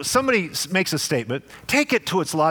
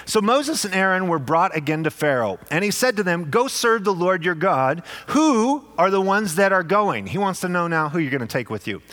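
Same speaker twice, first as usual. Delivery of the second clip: measured scripture reading voice. Acted.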